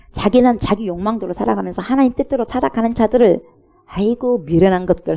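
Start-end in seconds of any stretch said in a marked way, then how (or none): 3.9-5.2 scoffing sigh at the foolish; mock scorn. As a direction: sneer it out like a scoffer. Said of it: "한다니까요".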